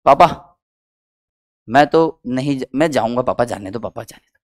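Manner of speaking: put-on soft pleading child voice, fading to nothing; whining child. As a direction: beg papa like a sulking kid, trailing off. (पापा से गिड़गिड़ाता बच्चा, धीमी होती आवाज़)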